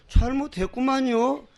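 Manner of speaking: slow, meek Chungcheong drawl; 느릿한 충청도 말투로 사과; 충청도 사투리. Retold or imitated. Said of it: "충청도 놈 사투리". (느린 충청도 사투리)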